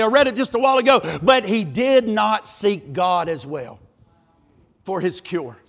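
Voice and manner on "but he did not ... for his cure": said sadly. Retold or imitated. Preacher reading the verse about Asa, slow and sorrowful. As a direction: let the verse sink with regret. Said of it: "it says this so sadly".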